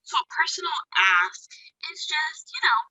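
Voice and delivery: distant, thin mic audio; sounding far off from the mic. Real, not acted. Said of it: "you sound like you're far away".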